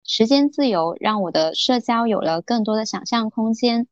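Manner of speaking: formal broadcaster reading voice; 播音腔. Acted. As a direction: read it out like a radio host. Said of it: "就立马切换成那种播音腔了". (字正腔圆的播音腔朗读)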